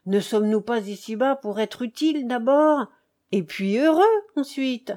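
briskly reasoning, mildly animated; lively light-hearted count. Acted. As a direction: argue it with rising conviction. (comte enjoué qui argumente avec entrain)

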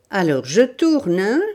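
loud, menacing question; growled threat. Acted. Bandit about to twist her wrist, growling. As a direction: threaten to hurt, pushing for an answer. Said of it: "grondait le bandit".

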